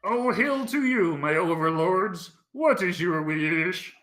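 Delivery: lightly voiced servile frog; a hint of a bowing frog servant; frog creature voice. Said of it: "in that voice".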